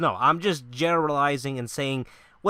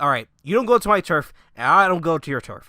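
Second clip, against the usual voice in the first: rival bigwigs' truce; 9 dB louder than usual. Retold or imitated. Voices rival sites striking a deal.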